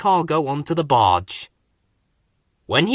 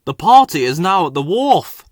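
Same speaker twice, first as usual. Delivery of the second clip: louder, quick engine puff; puffing eagerly; 3 semitones higher, 6 dB louder than usual. A narrator's reading. Freddy telling Rusty the news, louder and eager. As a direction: blurt it out, out of steam. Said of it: "puffed Freddy".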